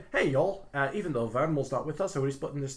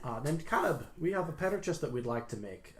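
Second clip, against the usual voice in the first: polite character voice; 4 semitones higher than usual. Acted. Character greets shopkeeper in play.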